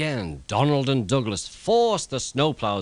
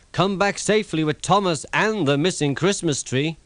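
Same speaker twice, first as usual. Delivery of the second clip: lightly voiced cheerful little engine, higher; Toby's voice; 7 semitones higher, 3 dB louder than usual. A narrator's reading. Toby calling to the twins, cheerful higher engine voice. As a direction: send them off with a hopeful farewell. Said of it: "added Toby".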